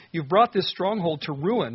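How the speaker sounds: anguished accusation. Acted. Psalmist accusing God.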